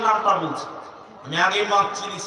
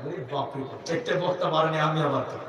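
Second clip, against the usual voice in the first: mock fear; 6 semitones lower, 5 dB quieter than usual. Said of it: "তখন খালি ভয় পেলাম".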